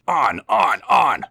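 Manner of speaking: loud high chant; gleeful shout. Acted. Trucks pushing Thomas.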